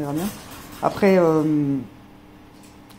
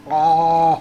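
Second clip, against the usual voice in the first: loud exclaim; 9 dB louder than usual. Real, not acted. Dog gets to coffee.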